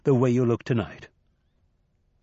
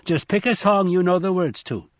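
put-on bright, higher old trickster voice; Nancy, raised and playful; lively old man; 7 semitones higher, 4 dB louder than usual. Nancy coaxing Shadow.

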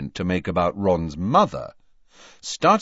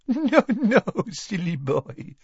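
higher, laughing French lilt; tinkling laugh; 10 semitones higher than usual. Acted. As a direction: laugh lightly through it. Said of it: "with a tinkling laugh".

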